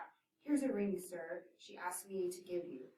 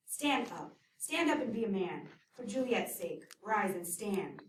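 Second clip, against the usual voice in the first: scolding command; 6 dB louder than usual. Acted. Nurse ordering Romeo up.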